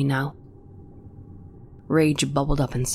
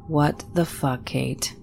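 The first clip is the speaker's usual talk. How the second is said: soft, tear-choked; slower than usual. Acted. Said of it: "my voice much softer now, tear-choked".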